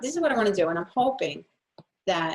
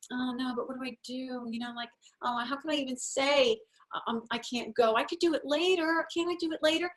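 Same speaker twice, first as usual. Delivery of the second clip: hesitant, unsure; 4 semitones higher than usual. Shown as a demonstration. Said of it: "sometimes we feel like".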